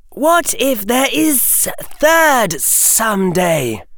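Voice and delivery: slow, high musing serpent; thoughtful snake hiss. A narrator's reading. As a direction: hiss it, wondering aloud. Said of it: "The snake swayed thoughtfully".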